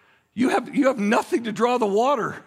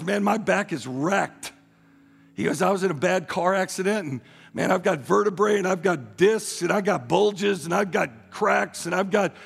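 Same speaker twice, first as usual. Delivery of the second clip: mopey complaint; 4 semitones lower than usual. Retold or imitated. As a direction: drag out each ailment like a sad sack. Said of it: "he's just talking like this".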